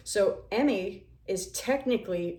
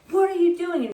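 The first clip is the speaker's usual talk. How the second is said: loud, higher shout; mock manager yell; 9 semitones higher, 7 dB louder than usual. Manager catching her at the decorations, mock loud yell. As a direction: bark it across the store. Manager yelling in retold scene.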